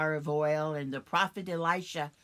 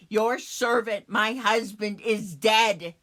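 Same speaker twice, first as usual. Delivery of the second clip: loud, raised, urgent plea; crying out; 7 dB louder than usual. Acted. Widow pleading to Elisha about her dead husband, crying out. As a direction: cry out for help, forcefully. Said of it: "I cry out to him".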